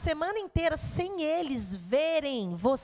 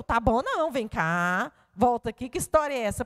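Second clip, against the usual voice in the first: calling him back; 4 dB louder than usual. Retold or imitated. Mother calls son back.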